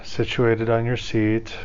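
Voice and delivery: calm, measured meditation guide with long pauses; guided meditation. Acted. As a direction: ease listeners into breathing, leaving room between phrases.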